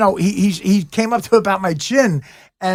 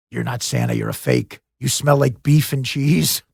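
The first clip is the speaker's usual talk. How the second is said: imitating Elf accusing Santa; 8 semitones lower than usual. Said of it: "talking to me as the Santa Claus".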